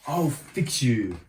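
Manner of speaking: slow, menacing queen threat; the cornered queen threatening the dwarfs. Acted. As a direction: growl it out slowly. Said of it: "she shackled".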